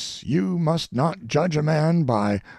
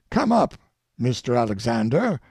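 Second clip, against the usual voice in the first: calling out. Acted. Speaker calling a guest forward at the dinner, raised call. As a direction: summon him up from his seat.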